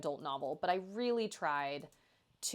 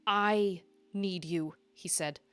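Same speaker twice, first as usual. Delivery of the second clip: story narration. A narrator's reading. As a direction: read it like an audiobook. Reads her romance novel aloud.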